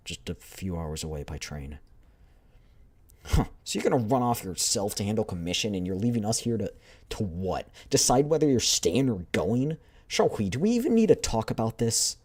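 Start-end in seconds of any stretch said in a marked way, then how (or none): 3.3-12.2 a bit louder, indignant rise; upset protest. Acted. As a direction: confront the leader. Squadmate protests leader leaving.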